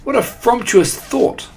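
very high, thrilled squeal of approval; delighted witches' cry. A narrator's reading. Witches relishing their leader's mouse plan, delighted. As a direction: exclaim in high-pitched glee. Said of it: "cried the witches".

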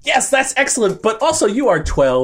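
patronise the kid with fake praise; answering a child on a baking show, mock condescending; mock condescension. Mock reply to kid contestant.

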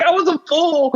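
high, hammed-up self-reproach; high-pitched playful impersonation; imitating Doc Brown. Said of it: "He's like".

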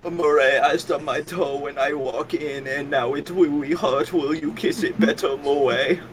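mock-pitiful baby talk; babyish Joker parody. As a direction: plead to Murray like a hurt child.

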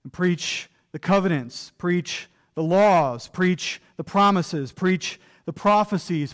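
preaching litany. Acted. Preacher listing everything Timothy must preach, building litany. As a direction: hammer each preach like a drumbeat.

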